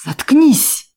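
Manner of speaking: high, loud, out-of-control yell; furious shout. A narrator's reading. Valker losing his temper at the woman, furious shout. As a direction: lose it and scream. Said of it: "выйдя из себя, закричал Валкер".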